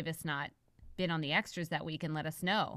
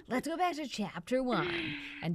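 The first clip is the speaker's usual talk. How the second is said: whispering. Acted. Sudden whispered aside.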